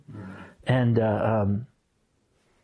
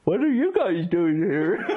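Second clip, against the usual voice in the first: laughing quote; 5 semitones higher than usual. Retold or imitated. Retold line, laughing, far voice.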